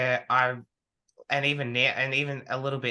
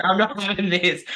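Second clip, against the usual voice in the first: louder, higher, punching not with a falling close; laughing mock outburst; 6 semitones higher, 6 dB louder than usual. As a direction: repeat the refusal through a laugh, firm. Repeats the court outburst laughing.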